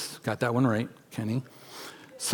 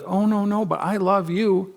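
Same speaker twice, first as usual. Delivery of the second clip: lightly voiced coward, higher pitched; mock coward; 4 semitones higher than usual. Coward backing down to someone out to get them, mock meek. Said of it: "act like a coward and be like".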